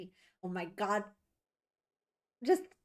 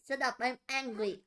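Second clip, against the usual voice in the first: mock pout; 5 dB louder than usual. Mimicking pouting character.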